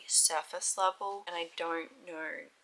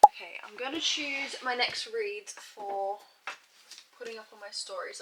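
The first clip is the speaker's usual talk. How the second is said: whisper; 3 semitones higher than usual. Real, not acted. Quiet aside while choosing books.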